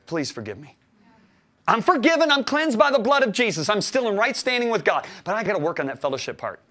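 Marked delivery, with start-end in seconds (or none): 0.0-0.8 pleading prayer. Retold or imitated. Retold prayer for forgiveness. 1.7-5.0 higher, louder faith proclamation; bold declaration. Acted. Preaching declaration.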